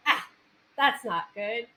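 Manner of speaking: playful imitation of a food critic, breaking into laughter; mock disapproval. Host imitates guest judging a taco truck, laughing mock disapproval. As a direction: object in mock outrage with a laugh creeping in.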